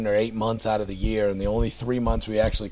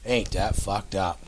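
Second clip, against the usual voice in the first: Down East Mainer; slower than usual. Retold or imitated. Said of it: "kind of a sound".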